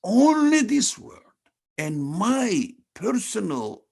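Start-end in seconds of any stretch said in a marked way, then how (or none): 0.0-1.2 "only" held high and much louder; emphatic stress on "only". Real, not acted. Teacher repeating the underlined phrase, heavy stress on "only". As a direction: drive home "only" with a high, forceful push. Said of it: "I'm emphasizing the, the word only".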